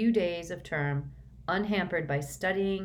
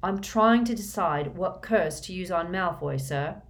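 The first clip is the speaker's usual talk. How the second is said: fierce; 3 dB louder than usual. Acted. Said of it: "said Harry fiercely".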